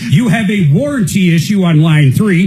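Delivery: mock airport paging announcer; flat echoey pa page. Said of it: "can you still have people paged at the airport".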